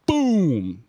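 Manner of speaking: long booming "boom"; drawn-out imitated blow; punch sound effect. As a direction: drag out the boom like an impact.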